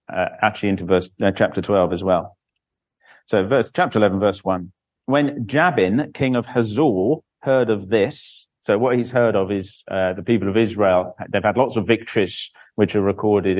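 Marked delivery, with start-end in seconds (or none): 5.1-8.5 measured Bible reading aloud; formal church reading; scripture reading. A narrator's reading. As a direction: read it out as scripture to a congregation. Reads Bible chapter aloud.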